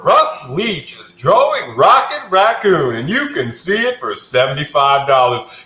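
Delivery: announcer voice. Pretend. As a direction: sell it like a late-night ad. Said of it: "That was good".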